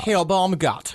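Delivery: lightly German Herr Baumgart; German accent. Shown as a demonstration. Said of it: "And that's how you do it".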